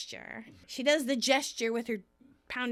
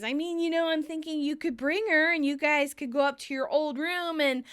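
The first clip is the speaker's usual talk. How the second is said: teasing; 5 semitones higher, 4 dB louder than usual. Retold or imitated. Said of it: "still tormenting Ross".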